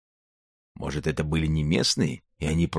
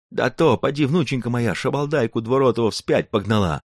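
put-on higher, lively old man voice; a proud old grandpa boasting; old Cossack grandfather; 6 semitones higher than usual. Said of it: "зевнул дед Ерошка".

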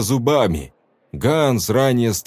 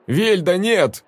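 raised alarmed cry; young man calling her back; urgent call; 9 semitones higher, slower than usual. A narrator's reading. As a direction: try to stop her. Young man stops Velda.

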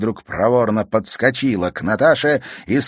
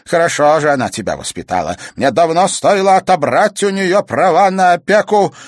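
put-on angry old woman; 10 semitones higher, 9 dB louder than usual. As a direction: tear into the girl like a furious old crone. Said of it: "не унималась Евдокия".

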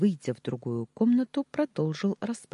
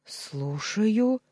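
higher, bewildered answer; 8 semitones higher, 4 dB louder than usual. A narrator's reading. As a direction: pick up the phone puzzled. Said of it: "раздался растерянный голос".

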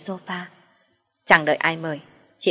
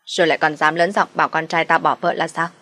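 stern, raised scolding voice; a mother-in-law berating an intruder, raised and stern; 4 dB louder than usual. Acted. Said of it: "mà quát".

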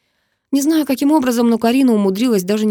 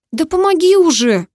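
put-on much higher and louder, enraged girl; furious demand; 8 semitones higher, 5 dB louder than usual. A narrator's reading. Girl stuck in the ditch yelling furiously at the teasing hero. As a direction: lose patience and yell for help. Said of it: "рассвирепела девчонка".

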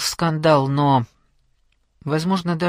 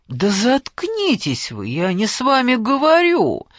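shouted; 7 semitones higher, slower than usual. A narrator's reading. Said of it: "крикнула это майору Белоручке".

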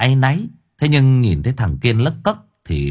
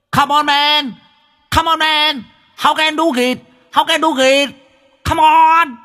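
American movie English. Acted. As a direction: hype him up like an action-film coach. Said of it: "bắn thêm mấy câu tiếng Anh như trong phim Mỹ". (giọng tiếng Anh kiểu phim Mỹ)

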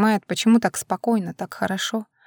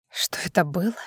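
hushed whispered echo of his question; bitter whisper; 3 semitones lower, 8 dB quieter than usual. A narrator's reading. Drunk Vlada throws his words back, whispering. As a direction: breathe it back at him in a whisper.

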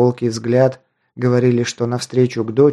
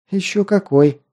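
higher, lightly smiling exclamation; smiling reply, pitched up; 8 semitones higher than usual. A narrator's reading. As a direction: confirm it with an audible smile. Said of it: "улыбнулась девушка".

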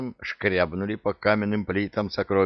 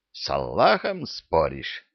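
plain reading voice

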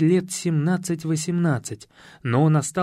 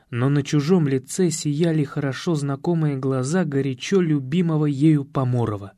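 ordinary delivery

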